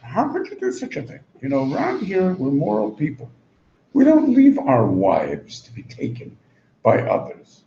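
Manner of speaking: a hint of a sanctimonious king; preachy Pharaoh. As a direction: lecture him on morals, shocked. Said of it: "he's gonna start giving me mussar".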